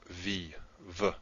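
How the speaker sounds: "v" sounded out as a letter sound, repeated. Shown as a demonstration. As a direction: give "v" as a continuous consonant, twice. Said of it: "as in V".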